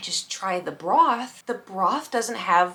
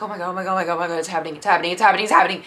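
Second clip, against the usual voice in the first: rising panic; 3 semitones lower, much faster than usual. Retold or imitated. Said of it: "I was like".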